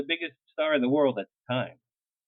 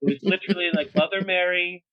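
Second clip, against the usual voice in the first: louder, laughing through the words; laughing awe; 3 semitones higher, 4 dB louder than usual. Real, not acted. Telling friends about her grand entrance, laughing and louder. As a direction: marvel while laughing.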